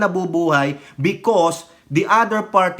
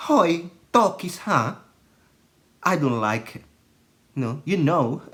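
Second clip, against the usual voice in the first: imitating a friend; 3 semitones lower than usual. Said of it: "kilos nung aming friend".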